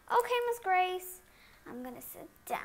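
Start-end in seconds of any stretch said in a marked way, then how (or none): 0.1-1.2 student voice. Pretend. Child student answers teacher.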